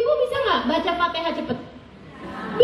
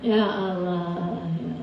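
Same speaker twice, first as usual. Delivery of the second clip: laughing; 8 semitones lower, 7 dB quieter, much slower than usual. Real, not acted. Stunned laughing exclamation.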